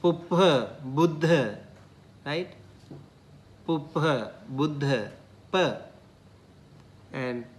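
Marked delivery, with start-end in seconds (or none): 0.0-1.6 puppha with a p puff, buddha with a voiced b; Pali pair. Shown as a demonstration. Teacher contrasting Pali words. 3.7-5.1 puppha with a p puff, buddha with a voiced b; Pali pair. Shown as a demonstration. Teacher contrasting Pali words. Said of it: "There's a difference".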